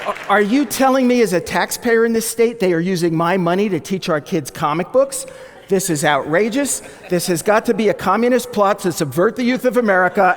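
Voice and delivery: indignant taxpayer tirade, voice pushed up; mock outraged scream. Fake irate taxpayer to a reporter, mock outrage. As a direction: act out a scandalized complaint. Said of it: "proceeded to scream at him".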